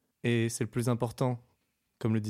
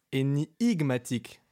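drawn-out repeat; slower than usual. Acted. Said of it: "le reprit Thierry Zidane".

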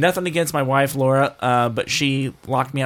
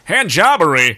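incredulous; 3 semitones higher, 7 dB louder, slower than usual. Real, not acted. Incredulous echo.

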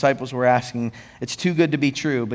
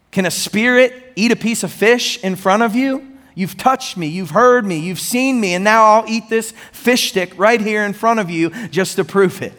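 higher, louder pleading proof; fervent preaching as Jesus; 7 semitones higher, 3 dB louder than usual. Acted. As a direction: speak as Jesus, insisting he is real. Preacher voices risen Jesus, fervent.

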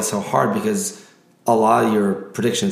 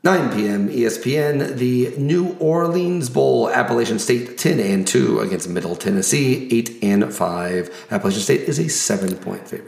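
announcer voice. Acted. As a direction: hype each matchup like a ring announcer. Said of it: "my announcer voice".

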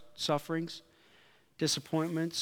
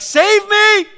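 high, loud, half-laughing cry of save me; mock cry for help; 16 dB louder than usual. Preacher acting his drowning panic, high laughing yell. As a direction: yelp it out like a drowning man, laughing. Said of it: "all over my face was like".

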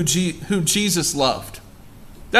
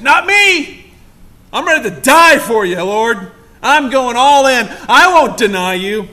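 bold boast; 3 semitones higher, 5 dB louder than usual. Acted. Peter's bold boast to Jesus.

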